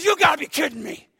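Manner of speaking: can't believe what he hears; stunned disbelief. Retold or imitated. Buddy hearing the hunt is off, high and disbelieving.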